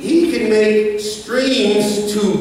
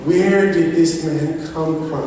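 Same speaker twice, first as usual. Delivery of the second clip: son's question, laughing. Retold or imitated. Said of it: "He's like".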